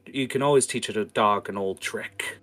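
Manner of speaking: put-on high, loud, creaky old voice; old grandparent voice. Grandparent tells the kids you never stop learning, creaky. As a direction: lecture like a doddering grandpa. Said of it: "grandparents looking people just going".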